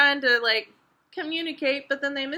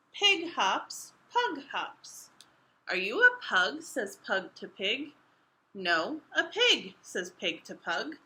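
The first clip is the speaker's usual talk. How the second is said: expressive picture book reading; reading to children; slower than usual. A narrator's reading. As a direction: read it out to young listeners.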